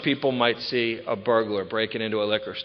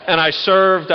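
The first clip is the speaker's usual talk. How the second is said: served hit high and loud, falling; stress on served; 8 semitones higher, 8 dB louder, slower than usual. Real, not acted. Telling the meeting he served the state, stressing served. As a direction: punch served like a proud claim. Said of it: "I repeat".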